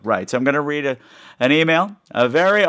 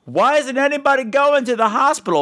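high-pitched mock yell at the screen; exasperated mock yell, much higher; retold yelling at the TV; 12 semitones higher than usual. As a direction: replay shouting at the TV, pitched way up. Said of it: "I was yelling at the T V screen".

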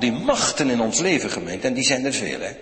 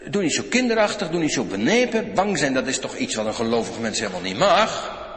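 scolding reproach; 4 semitones higher than usual. Retold or imitated. Verwijtende God, niet zoals Hij spreekt.

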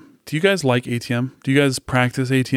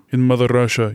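put-on Russian accent. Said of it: "the speaker's Russian accents".

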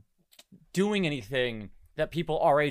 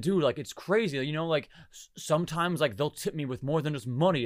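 straight character. Acted. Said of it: "practice my straight character".

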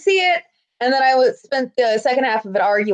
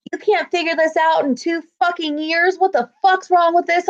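higher-pitched irate customer; retold angry complaint; 5 semitones higher than usual. An angry guest berating staff over two years of failures, exasperated.

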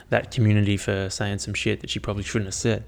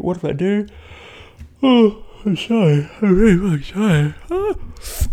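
pained cry; 10 semitones higher, 6 dB louder than usual. Real, not acted. Sudden pain mid-sentence, cries out.

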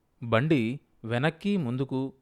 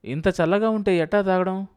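higher, louder grumbling protest; complaining husband; 8 semitones higher, 6 dB louder than usual. A narrator's reading. Husband objects to the icy drink, complaining. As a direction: protest indignantly about the drink.

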